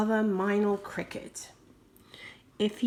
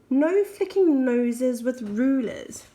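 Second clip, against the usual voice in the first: stern mum; 2 semitones higher, 5 dB louder than usual. Retold or imitated. Mum scolds the children.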